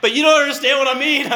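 high, loud pleading protest; exasperated plea. Retold or imitated. Pastor insisting to his church back home, exasperated. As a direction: insist they just don't get it. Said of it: "but I'm like".

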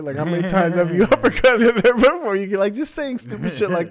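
high, loud mocking roast; roasting crowd work. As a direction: needle him hard, voice up and loud. Roasting the heckler onstage.

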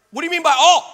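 hammed-up disbelief at being told all; mock indignant protest. Protesting to God over throwing everything out, mock indignant.

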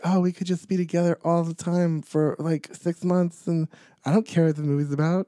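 lightly voiced smitten actor; acted gushing couple. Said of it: "and they were like".

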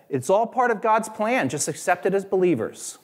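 high and sugary, parroting the empty comfort; mock pious platitude. A preacher mimics churchgoers' hollow comfort, high and sweet. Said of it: "he said this was not helpful".

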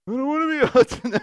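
put-on high, loud sulky kid; little boy voice. Dad imitating his son refusing the family name. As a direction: whine it like a defiant little boy.

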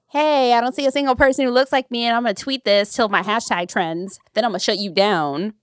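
acted-out indignant threat; mock indignation. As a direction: rattle off a complaint like an outraged online critic. Voicing an online backlash complainer.

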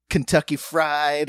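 slow mock Kentucky accent. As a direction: imitate someone laying on Kentucky twang. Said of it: "he lays a little".

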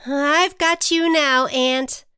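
high, loud, slow assurance; changed, assured storybook voice; newly confident butterfly. A narrator's reading. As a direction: declare the rescue boldly. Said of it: "The butterfly's voice sounded different".

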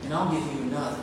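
earnest, expressive storytelling read; preacher reading a short story aloud; story narration. A narrator's reading. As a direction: read the parable to the congregation with feeling. Reads The Rag Man story aloud.

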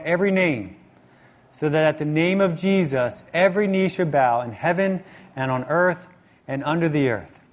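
measured, slow public Bible reading; scripture reading. Real, not acted. Preacher reading Philippians to the congregation, measured scripture reading. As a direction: read it out deliberately, phrase by phrase.

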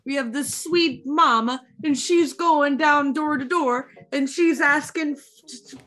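amateur mock Italian storytelling; Italian accent. Recapping Edward Scissorhands for friends, put-on Italian accent. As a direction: retell it in a shaky attempt at an Italian accent. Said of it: "I'm trying to get the accent".

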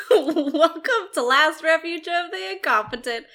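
put-on laughing through an old-timey narrator voice; a lightly voiced folksy narrator. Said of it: "I'm just your old-timey narrator".

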